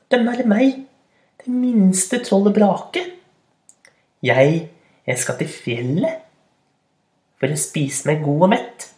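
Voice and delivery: high timid little troll; small troll voice. Acted. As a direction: squeak it out like a tiny troll. Small troll answers the goat. (lys liten troll)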